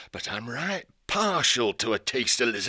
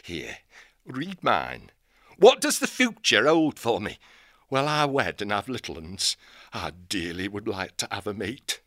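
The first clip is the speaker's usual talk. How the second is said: a northern-voiced old owl hermit, gruff and folksy. Old hermit owl hailing the young hare. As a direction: greet her like a crusty old country owl.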